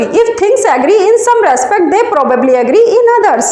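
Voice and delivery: slow, word by word for note-taking; slow dictation. Shown as a demonstration. Teacher dictating a definition to students, slowly and deliberately.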